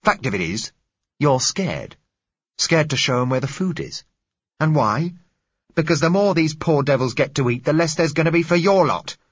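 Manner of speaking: loud, high, building scorn; contemptuous accusation. Acted. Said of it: "He stood glaring".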